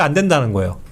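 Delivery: usual speaking voice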